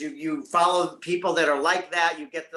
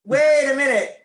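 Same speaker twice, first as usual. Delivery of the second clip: higher, louder, slow amazed gasp; stunned double take; 6 semitones higher, 9 dB louder, slower than usual. Retold or imitated. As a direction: let the beauty stop you mid-breath. Stunned by a beautiful woman.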